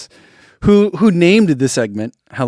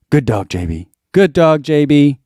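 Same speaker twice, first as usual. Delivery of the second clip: slow dog praise; 3 dB louder than usual. Pretend. Shouting out a viewer's dog.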